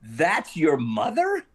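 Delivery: slow, drawn-out mock disbelief; imitating a stunned star; incredulous question, retold. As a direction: stretch it out into a rising question. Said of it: "he cracked up and he went".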